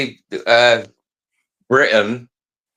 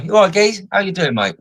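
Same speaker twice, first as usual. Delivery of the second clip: higher, cheery Cockney hello to a copper; pretend Cockney greeting; 8 semitones higher than usual. Streamer imagines greeting an American police officer in Cockney. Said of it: "by my Cockney accent".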